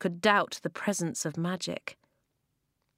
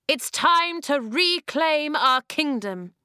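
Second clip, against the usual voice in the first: slow, loud and raised, defiant; defiant slow declaration; 8 semitones higher, 6 dB louder, slower than usual. Acted. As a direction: drive each word home slowly. Climax of speech.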